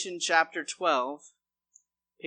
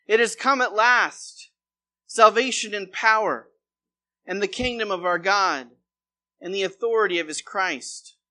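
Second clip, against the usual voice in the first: raised, ringing voice, phrase by phrase; loud proclamation; 2 semitones higher, 7 dB louder than usual. A narrator's reading. Pastor voicing a heavenly announcement from scripture, loud proclamation. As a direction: proclaim it loudly, short of a full shout. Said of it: "a loud voice shouting across the heavens".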